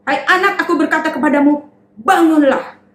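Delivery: lightly voiced Jesus raising the girl; a hint of commanding Jesus. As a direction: call the child awake.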